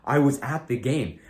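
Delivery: cocky, emphatic bluffing; too confident. Shown as a demonstration. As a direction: insist on a made-up claim with total confidence. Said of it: "be too confident".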